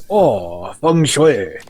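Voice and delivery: lightly put-on Asian accent. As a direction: Asian accent, low drawn Oh. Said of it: "I use my authentic Asian accent".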